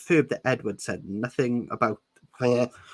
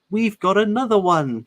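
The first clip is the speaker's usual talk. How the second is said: croaky; 9 semitones higher, 6 dB louder than usual. Acted. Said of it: "she crawled".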